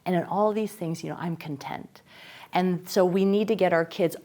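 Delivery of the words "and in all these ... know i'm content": quoting Paul. Retold or imitated. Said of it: "the Apostle Paul says".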